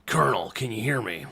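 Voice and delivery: Solid Snake voice. Retold or imitated. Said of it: "try to sound like Solid Snake".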